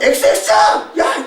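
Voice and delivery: shouted censored curse; mock swearing. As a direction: yell like a cursing tourist, lightly hammed-up. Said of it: "그럼 욕하면서 막". (욕하듯 외치는 흉내)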